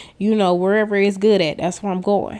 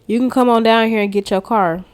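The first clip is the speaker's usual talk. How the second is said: excited repeat; 2 semitones higher, 4 dB louder than usual. Real, not acted. Relishing the salesman's news to viewers, excited repeat. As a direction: savour the good news out loud.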